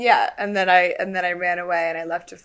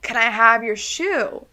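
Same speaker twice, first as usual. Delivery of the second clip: louder, higher, near tears; apologetic plea; 3 semitones higher, 6 dB louder, slower than usual. Retold or imitated. Player asking Craig for his shoe, near tears. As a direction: beg him sorry-sounding. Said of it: "And I was like".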